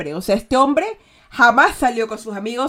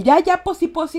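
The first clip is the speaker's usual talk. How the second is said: higher, brushing-off "ya, ya, posi" to end the topic; dismissive posi; 7 semitones higher, 5 dB louder than usual. Shown as a demonstration. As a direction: cut them off and change the subject. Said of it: "ya, suficiente, cambiemos de otro tema".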